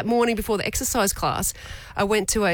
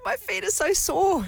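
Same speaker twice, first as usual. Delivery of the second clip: near tears; 10 semitones higher, slower than usual. Retold or imitated. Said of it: "And I nearly started crying".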